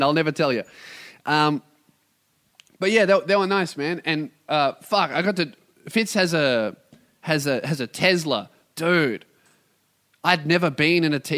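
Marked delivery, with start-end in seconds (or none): none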